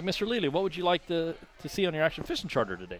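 high, chirpy customer-service voice; bright salesman voice to a client; mock charter host. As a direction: play the overly polite tour guide.

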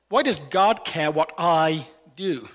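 slow, with "Why" drawn out and leaned on hardest; stress on WHY. Shown as a demonstration. Preacher shows the congregation how stressing why shifts meaning. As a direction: open with a heavy, lingering "Why". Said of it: "depending on where you put the emphasis".

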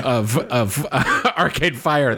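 half-laughing, starstruck whisper-quote; laughing disbelief. Retold or imitated. To cousin at the bar, laughing starstruck. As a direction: laugh through the words in disbelief.

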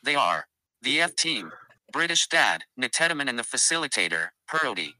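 lightly voiced robot announcer; host it like a machine. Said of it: "rantable robot, Respawn".

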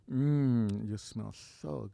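low, slow creep voice; creepy low murmur. Shown as a demonstration. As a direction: drop very low and soft, slow. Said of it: "Do that again".

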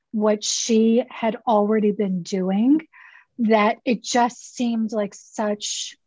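tired, worn-out hoarse voice. Real, not acted. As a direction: voice nearly gone after a long day. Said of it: "I'm sorry, my voice sounds like this".

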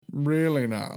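a touch of smug doubt; smug comeback. Retold or imitated. Turning to his girlfriend after the announcement, smug comeback. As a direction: ask it knowingly, mildly smug. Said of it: "like, smug look where I was like".

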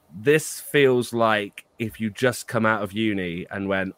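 slow, measured, holding back criticism; choosing words carefully. Real, not acted. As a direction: say it slowly, picking words with care. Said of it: "trying to choose my words very carefully here".

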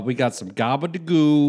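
put-on Polish accent. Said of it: "we're doing a Polish accent".

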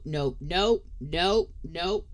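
loud rapid string of nopes; firm loud no no no; emphatic refusal. Retold or imitated. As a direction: shut it down hard, nope after nope. Refusing son about podcast.

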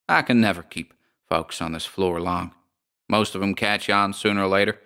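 lightly voiced American landlady, unbothered; drawling landlady. Landlady explains to the lodger.

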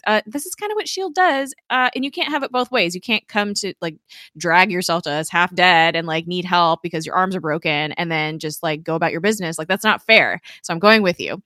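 mildly sassy telling-off, settling into firm insistence. Retold or imitated. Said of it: "she's very sassy about it".

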